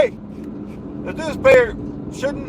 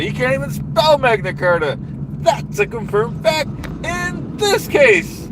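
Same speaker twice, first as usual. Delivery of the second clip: blustering rally-speech voice, big falling endings; pompous politician rant; 2 semitones higher than usual. Acted. Comic ranting at the audience about the dues payer, blustering politician voice. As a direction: rant like a self-important demagogue at a rally.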